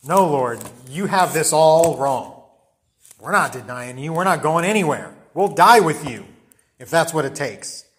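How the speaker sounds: mildly insistent group protest; a touch of defiant loyalty; emphatic protest. Acted. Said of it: "they all said the same".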